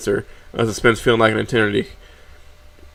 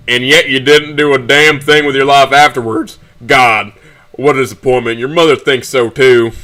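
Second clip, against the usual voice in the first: raised, exasperated dad voice; scornful scolding; 3 semitones higher, 4 dB louder than usual. Acted. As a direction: berate him as a disappointment. Father berates son over phone.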